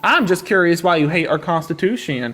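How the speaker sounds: drawling mock country accent, lightly done; country accent slipping in and out; put-on country accent. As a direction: play a hick country caller-host accent. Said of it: "whatever accent that was".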